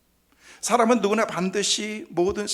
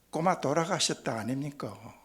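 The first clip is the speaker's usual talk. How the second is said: put-on Gyeongsang accent; 4 semitones lower, 4 dB quieter than usual. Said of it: "경상도 사람들은 그런데요".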